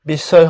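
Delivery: "বিস্ময়" said bis-soy, with plain s; ভুল উচ্চারণ. Shown as a demonstration. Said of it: "বিস্ময় হবে না". ("বিস্ময়"-এ ম ছাড়া দন্ত্য স)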